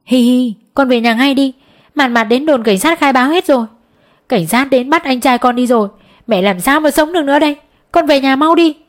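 a mother begging her son through tears, building to a cry; wailing on the phone. Acted. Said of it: "Mẹ đang gào khóc thảm thiết qua điện thoại".

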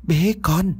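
put-on high babbling baby voice, eerie; babbling ghost baby. A narrator's reading. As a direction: coo it like a creepy infant ghost. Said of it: "Giọng nói bập bẹ nhưng không kém phần ghê sợ".

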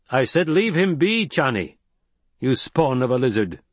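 high, loud scolding command; sharp rebuke. Acted. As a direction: snap at the hidden girl. Stilgar rebukes hidden Chani.

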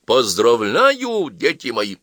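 drawn-out mock-solemn congratulations; loud congratulation. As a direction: proclaim it slowly and grandly. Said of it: "громко произнёс".

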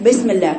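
imitating a student saying بسم as "besm"; quick بسم الله with a lax "be"; wrong kasra. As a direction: mimic the faulty, half-open vowel in بسم. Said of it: "وهي بتقرأ البسملة تقول لك".

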